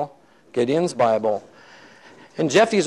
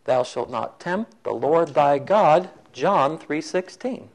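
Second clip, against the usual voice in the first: slow, deliberate scripture citation; acted-out solemn admonition; solemn quote; 3 dB quieter, slower than usual. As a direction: intone it slowly like holy writ. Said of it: "the guy says again".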